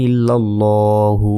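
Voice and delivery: slow "ইল্লাল্লাহু" with a long rounded "ল"; Arabic Lam as LO. Shown as a demonstration. Qur'an teacher applying the rule, long rounded "ল". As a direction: draw out LLO in "ইল্লাল্লাহু", then "হু". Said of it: "ল্যা না বলে ল বলতে হয়".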